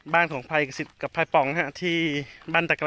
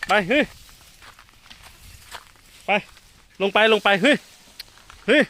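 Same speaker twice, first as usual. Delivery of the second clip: shooing shout; 5 semitones higher, 5 dB louder than usual. Real, not acted. Driving elephant down.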